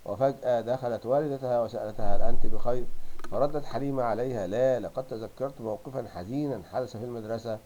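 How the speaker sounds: loud, clear classroom story reading; carefully enunciated reading of a text; passage read aloud. Acted.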